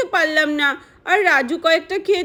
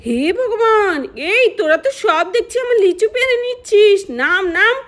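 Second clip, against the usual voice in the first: outraged aunt; 5 semitones higher, 3 dB louder than usual. Acted. Aunt catches kids stealing.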